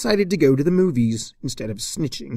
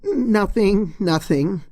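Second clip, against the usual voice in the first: hasty cover; 8 semitones higher, 4 dB louder, slower than usual. Acted. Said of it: "said Twilight quickly".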